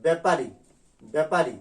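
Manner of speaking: ব্যাপারী said with a plain এ; teacher modelling ব্যাপারী; demo pronunciation. Shown as a demonstration. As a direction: say ব্যাপারী with an ordinary এ. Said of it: "উচ্চারণটা করা হবে এ দিয়ে".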